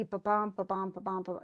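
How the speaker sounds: quick "ba-bum" run, stress on each BUM; iambic rhythm. Shown as a demonstration. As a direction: rattle off the weak-strong "ba-bum" beat. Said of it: "they should be".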